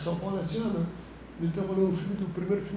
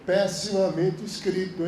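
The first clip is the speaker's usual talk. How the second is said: mock disdain; slower than usual. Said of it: "pegava o roteiro e falava".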